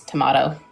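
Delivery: "tomato" as tuh-MAH-toe; Australian pronunciation. Retold or imitated. Woman answers who says it, Australian "tomato" with an ah. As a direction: imitate "tomato" with a long ah in the middle.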